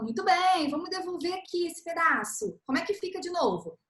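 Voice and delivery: put-on encouraging teacher praising a child who got it right. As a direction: cheer the child on gently. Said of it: "Aí você fala".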